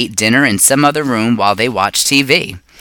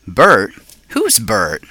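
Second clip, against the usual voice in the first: hamster squeak; slower than usual. A narrator's reading. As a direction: squeak it out, puzzled. Hamster asks in surprise.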